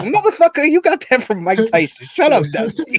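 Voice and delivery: high, incredulous outburst; mock exasperated rant; mock exasperation. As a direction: scoff at the obvious rip-off. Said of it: "It's like".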